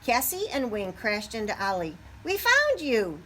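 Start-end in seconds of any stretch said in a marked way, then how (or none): 2.2-3.2 excited higher, louder call; shouted. A narrator's reading. Turkeys bursting in on Ollie, loud excited shout. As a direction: call out gleefully on finding him. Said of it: "they shouted".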